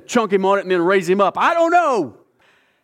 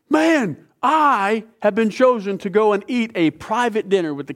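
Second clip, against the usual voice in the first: thrilled Haman; 5 semitones higher than usual. Acted. Haman bragging about his private dinner, high excited glee. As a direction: crow about the invitation.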